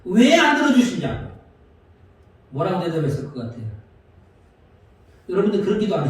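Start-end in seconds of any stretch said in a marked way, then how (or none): 0.0-1.3 higher, insistent 안 in mock protest; arguing with God. Pastor retelling arguing with God, mock-insistent. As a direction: demand it back at God, pushing on 안. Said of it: "막 따졌죠".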